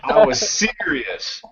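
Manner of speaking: "I was serious" said slow and deadpan, faking gravity; mock serious face. Shown as a demonstration. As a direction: put on a fake serious face and drag it out slowly. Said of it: "I'm gonna put my serious face on".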